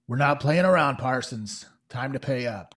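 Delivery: a hint of a hard threat; lightly voiced thug threat. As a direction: warn him after the punch. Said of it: "He's like".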